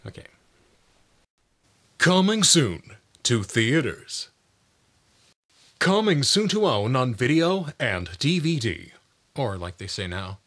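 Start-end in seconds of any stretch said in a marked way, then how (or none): 2.0-4.3 slow, weighty trailer narration; movie trailer voice. Shown as a demonstration. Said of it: "announcer and movie trailer voices". 5.8-8.9 dramatic home video promo read; movie trailer voice. Shown as a demonstration. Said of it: "announcer and movie trailer voices".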